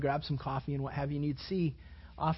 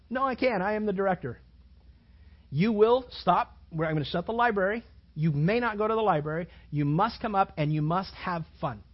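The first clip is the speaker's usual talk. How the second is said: loud firm commands; loud mock director's orders; stern director; 4 semitones higher, 6 dB louder than usual. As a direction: lay down the law loudly. Voicing the college director.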